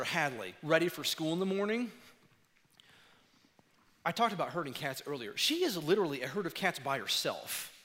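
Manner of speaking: ordinary talk, nothing marked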